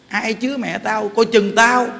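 mock a rude threat, slow then punchy; retold insolent threat. Woman's child warning whoever shelters mother, imitated insolent threat. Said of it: "nó hỗn đi ghê thiệt".

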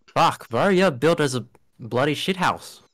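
broad Aussie slang line, played up; Australian slang on request. Shown as a demonstration. Australian asked to say something in Australian, thick accent. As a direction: lay the Australian on thick for the Americans. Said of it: "can you guys say something in Australian?".

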